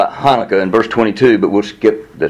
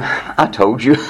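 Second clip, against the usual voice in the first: tag; much slower than usual. Acted. Jesus's exasperated answer, said laughing.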